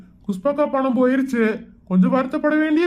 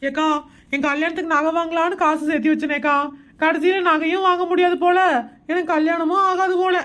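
tearful lament; crying. Acted. Woman fears her wedding is off, lamenting tearfully to her friend. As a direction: whimper about the lost wedding savings. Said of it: "நீ எதுக்கு இப்படி அழுகுற?".

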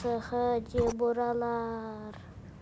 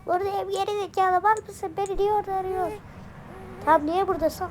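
put-on higher, bratty toddler voice; cheeky baby voice; 6 semitones higher, 4 dB louder than usual. Baby Osman sasses his caretaker, cheeky higher toddler voice. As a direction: talk back like a sassy little kid.

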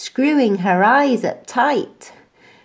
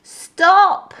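high loud stop; mock alarmed shout; 11 semitones higher, 7 dB louder than usual. A narrator's reading. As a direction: call out in pretend alarm. Day Monkey shouts stop.

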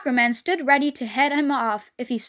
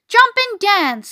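high, loud, drawn-out call; rooster's call; 6 semitones higher, 5 dB louder, slower than usual. A narrator's reading. Rooster advising the fleeing pig, rooster's call. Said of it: "said the rooster".

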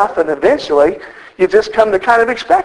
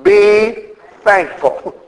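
mock-proud title; 3 semitones lower, much slower than usual. Shown as a demonstration. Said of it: "it's real original".

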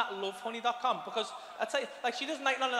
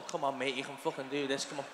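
self pep talk; 7 semitones lower, 4 dB quieter than usual. Retold or imitated. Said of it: "just going".

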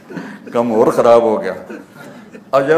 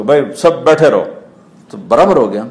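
louder, faster insistent order; loud and quick; 2 semitones higher, 5 dB louder, faster than usual. Acted. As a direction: push the words out fast. Preacher repeating the command. (تیز اور بلند)

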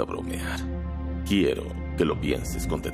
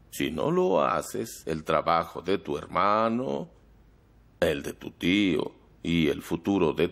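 veiled threat. Acted.

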